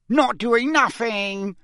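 high, drawn-out mischievous voice; gleeful, taunting poltergeist squawk; cackling poltergeist. A narrator's reading. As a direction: cackle it like a cheeky imp. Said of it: "cackled Peeves".

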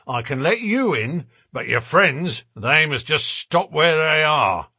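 lightly voiced rough, unbudging porter; stubborn porter. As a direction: refuse them entry, sticking to the rules.

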